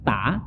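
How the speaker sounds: "ta" with a thin T and open A; too light ta. Shown as a demonstration. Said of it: "jangan dibaca terlalu ringan".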